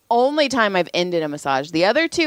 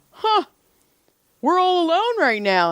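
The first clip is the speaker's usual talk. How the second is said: high, put-on voice with a gasp; mock creepy client; 11 semitones higher than usual. Client notices he's alone with masseuse, creepy high voice. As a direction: imitate him in a high, insinuating tone.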